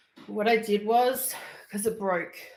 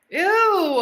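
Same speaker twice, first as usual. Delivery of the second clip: disgusted ew; 10 semitones higher, 11 dB louder than usual. Real, not acted. Disgusted at a chat message.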